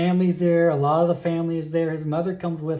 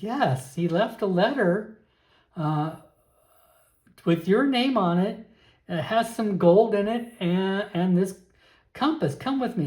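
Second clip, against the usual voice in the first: lightly voiced aunt, higher pitch; a hint of an older relative, pitched up; earnest aunt; 4 semitones higher than usual. Aunt tells nephew of the letter left him, lightly earnest. Plays the aunt passing on bequest.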